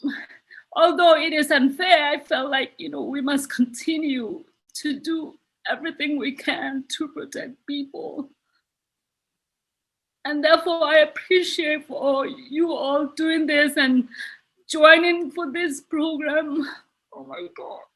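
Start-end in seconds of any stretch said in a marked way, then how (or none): 2.8-8.3 fading into a choked whisper; tearful whisper. Real, not acted. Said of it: "I'm being a little emotional". 10.8-16.7 tearful thanks. Real, not acted. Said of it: "I'm being a little emotional". 17.1-17.8 a breathless whisper to herself, overwhelmed; whispered oh my God. Real, not acted. Speaker overwhelmed after emotional testimony.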